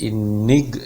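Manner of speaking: "enig-" drawn out, rising to NIG; stress on second syllable. Shown as a demonstration. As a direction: slowly lift "enig-" up onto its second syllable. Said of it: "एकदम ऊपर जाएगी". ("enig-" में दूसरे अक्षर पर आवाज़ ऊपर)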